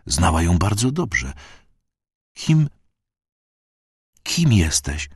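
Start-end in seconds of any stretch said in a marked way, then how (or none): 2.3-5.1 forced out with effort. A narrator's reading. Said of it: "cedziła słowa z trudem".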